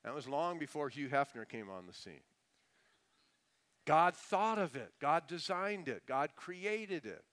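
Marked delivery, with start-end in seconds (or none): 3.8-7.2 emphatic preaching. Real, not acted.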